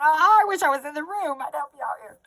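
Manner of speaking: mock eager helper. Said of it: "you're just sitting there going".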